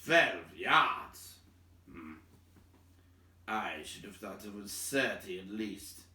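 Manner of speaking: put-on gruff older dwarf, doubtful; Thorin's voice. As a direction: grumble it like a doubting old dwarf. Thorin's voice in dialogue.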